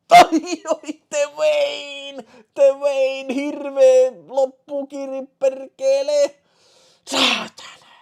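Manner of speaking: high, loud and drawn-out shout for the winner; excited finish cheer. Real, not acted. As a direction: yell it out as the racer takes the lead at the line. (innostunut loppukirihuuto)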